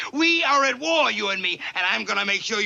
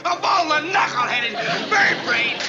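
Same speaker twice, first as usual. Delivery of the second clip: angry shout; 5 semitones higher than usual. Acted. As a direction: blow up at the recruit. Sergeant chewing out private Pyle.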